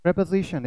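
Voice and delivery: preposition with a short, unstressed "pre" and a z sound; correct pronunciation. Shown as a demonstration. Teacher models the word for students, correct pronunciation of preposition. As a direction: say "preposition" as prep-uh-ZI-shun. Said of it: "it's not preposition or preposition".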